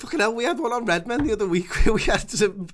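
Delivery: high and loud, laughing through it. Real, not acted. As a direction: burst out laughing as you tell it. Laughing story about singing.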